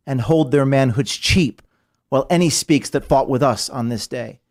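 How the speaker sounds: lightly declaimed St Crispin's speech; reciting Shakespeare to rally the troops; reciting Henry the Fifth. Retold or imitated. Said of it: "that Henry the Fifth quote that we were reciting".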